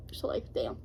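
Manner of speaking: speaking through hiccups; hiccuping between words. Real, not acted. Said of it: "Why am I, like, hiccuping?".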